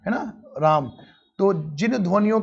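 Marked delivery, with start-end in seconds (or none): 0.6-0.9 राम with the रा long and drawn out; stretched vowel. Shown as a demonstration. Teacher demonstrating a prolonged vowel to students, stretching रा in राम. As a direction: hold the रा in राम before closing on म. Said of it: "रा की बच्ची ध्वनि में ज्यादा खिंच जाती है".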